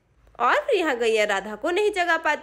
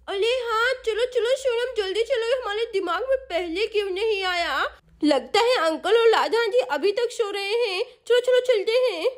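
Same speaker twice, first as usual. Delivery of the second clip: put-on eager hurried girl; 3 semitones higher than usual. Chinki hurrying to wake adults.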